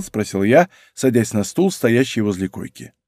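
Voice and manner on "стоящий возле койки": ordinary delivery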